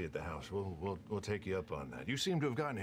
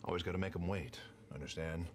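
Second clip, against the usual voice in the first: cowboy voice; 2 semitones lower than usual. Acted. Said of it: "Actually sound like a cowboy".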